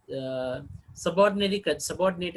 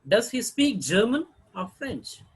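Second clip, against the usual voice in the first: high "German" rising, "French" falling; choice question; 5 semitones higher than usual. Shown as a demonstration. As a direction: offer two languages, lifting "German" and dropping "French". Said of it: "first tone group may have the rising tone".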